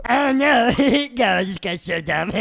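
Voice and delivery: goofy giggling, sinking low and quiet; odd giggly voice. Acted. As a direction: let it trail down into sniggers. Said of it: "why do you sound like that".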